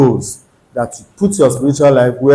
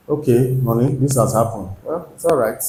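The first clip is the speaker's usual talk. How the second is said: reassuring spouse; 6 dB quieter than usual. Retold or imitated. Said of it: "That is not a positive mindset".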